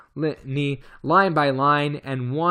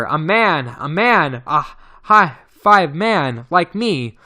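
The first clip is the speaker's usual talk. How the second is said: excited; 3 dB louder, slower than usual. Acted. Ape man excitedly announces visitor.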